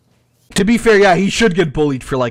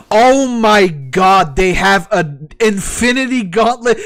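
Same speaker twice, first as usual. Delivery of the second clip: stunned disbelief; 5 semitones higher, 3 dB louder than usual. Real, not acted. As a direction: stretch it out in horror. Horrified at the Infinity Gauntlet.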